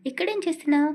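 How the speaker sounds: a woman finds someone in her bed and yells; startled shout. Acted. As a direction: shout out in shock at a stranger in the dark. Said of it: "అని గట్టిగా అరవబోయింది".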